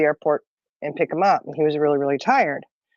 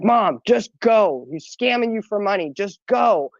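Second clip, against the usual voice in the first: slow, emphatic retold plea; mock urgent son; 3 semitones higher, slower than usual. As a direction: lightly act out an insistent son. Son urging mom to drive off.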